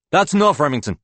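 sharp rise, loud telling-off; exasperated father. A narrator's reading. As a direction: cut the child off loudly. Father cuts off noisy son.

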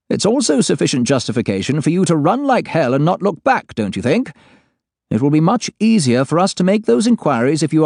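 high, measured voice, stress held down; forced calm. Acted. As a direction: sound calm though barely holding it. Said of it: "He's clearly making an effort to sound calm".

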